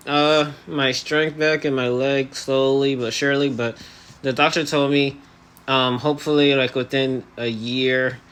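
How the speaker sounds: talking through elastics in the mouth; jaw held shut. Real, not acted. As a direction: speak with the jaw barely moving. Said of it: "now I have, um, elastics in my, uh, mouth".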